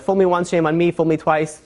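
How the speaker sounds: "Fool me once, shame on me" said as a botched proverb, otherwise in a plain voice; deliberately wrong saying. Shown as a demonstration. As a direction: mangle the saying on purpose, casually. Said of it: "I said it wrong, all of them, on purpose".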